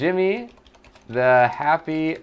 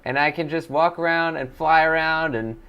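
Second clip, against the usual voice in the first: Jimmy the Happy Ghost Rat. Acted. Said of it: "That's Jimmy the Ghost Rat".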